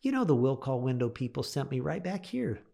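restrained complaint through a forced smile. Retold or imitated. Frustrated customer back at the ticket booth, forced smile. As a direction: hold back frustration, politely pointing out the problem. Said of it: "Trying to force a smile".

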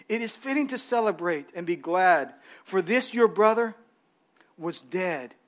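calm the resentful son gently; gentle father. Acted. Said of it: "He says".

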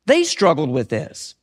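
low, slow, subdued repeat; sinking low and heavy. Shown as a demonstration. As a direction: drop the voice and draw it out.

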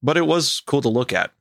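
measured first-person storytelling; story narration. A narrator's reading. Host reading a camper's story to co-host, measured narration. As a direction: read it like a campfire tale. Reads a camping story aloud.

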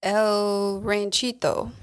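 "El Ranchito" said slowly, rolled Spanish style; Spanish pronunciation. Shown as a demonstration. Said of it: "I had you say it because my".

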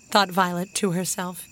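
plain reading voice

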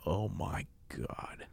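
whispered dismay. Retold or imitated. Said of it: "my gut dropped".

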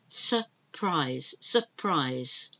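"Surprise" with the first R barely there and the second R clearly sounded; first R almost silent. Shown as a demonstration. Teacher showing learners the silent first R. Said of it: "the first one is almost like it's not there".

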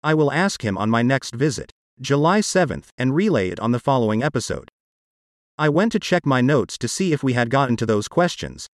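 text-to-speech voice, even and mechanical; computer-generated voice. Real, not acted. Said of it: "my part of this podcast is done with a computer-generated voice".

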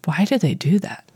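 unvoiced weary whisper. Real, not acted. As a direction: breathe it out under your breath. Whispered aside about kids.

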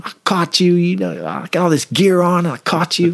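high-pitched gloating taunt; trash talk. Retold or imitated. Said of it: "talking all kinds of trash to him".

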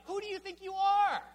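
put-on high, loud scolding shout at a defiant child; angry parent shout. Father scolding a daughter who broke his rules, loud angry shout. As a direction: bellow it like a furious father laying down the law. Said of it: "I would say something like".

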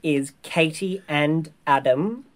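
crisp, announcer-style read; newsreader voice. Real, not acted. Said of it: "I love that you sound like a, a newsreader".

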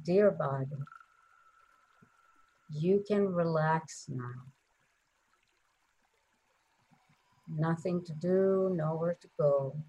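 tender, unhurried words to one's own body; sweetly soothing. Shown as a demonstration. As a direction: sweetly coax the body to relax, pausing between phrases. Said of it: "sweetly say to your body".

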